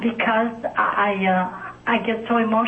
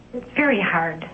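near tears. Real, not acted. Caller near tears about church.

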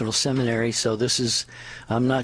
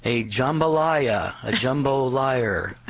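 slow punchline; much slower than usual. Acted. Punchline delivered slowly.

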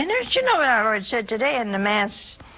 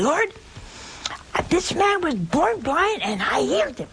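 proud announcement; 8 semitones higher than usual. Retold or imitated. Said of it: "Peter coming up and saying".

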